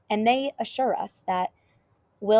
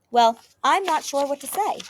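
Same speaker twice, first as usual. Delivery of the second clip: talkative host; 6 semitones higher, 5 dB louder than usual. Acted. Host starts talking on request.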